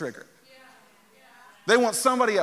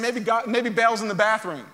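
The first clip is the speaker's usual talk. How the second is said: lightly sarcastic needling, picking up pace. Retold or imitated. Elijah shouting insults at Baal's prophets, sarcastic. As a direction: offer helpful suggestions in mild mockery. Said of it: "sarcastic on another level".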